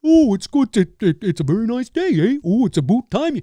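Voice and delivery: high, hammed-up cartoon Canadian voice; mock Canadian accent. Showing how Americans depict Canadians, mock Canadian accent. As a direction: play the dopey stereotype Canadian, eh. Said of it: "everybody just sounds like this up here".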